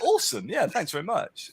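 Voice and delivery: high-pitched mock thanks; mock gratitude. Lucifer given hell to look after, facetiously grateful. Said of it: "It'd be like".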